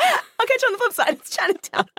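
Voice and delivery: very high goofy parody voice; mock movie quote. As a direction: chirp it as a silly misquote. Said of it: "quote the end of Chinatown".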